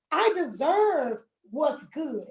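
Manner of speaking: slow, firm I deserve what's good; slow declaration of worth; slow affirmation. Shown as a demonstration. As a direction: plant each word, slowly. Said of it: "slow emphatic affirmation".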